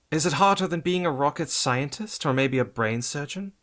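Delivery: teasing laughter. A narrator's reading. Batgirl teasing through laughter.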